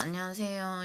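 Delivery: mock, drooping, droopy delivery of 안녕하세요. Describing how she used to always droop when greeting: mock-droopy 안녕하세요 greeting. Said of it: "이런 식으로 항상 축축 처져".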